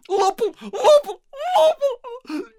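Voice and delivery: wife in hysterics; hysterical sob-laugh. Acted. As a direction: break into hysterics. Hysterical wife keeps repeating.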